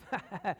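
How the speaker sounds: short mock chuckle; put-on wrestler dad's laugh; imitated dad's laugh. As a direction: laugh like dad enjoying the squeeze. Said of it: "And he'd laugh".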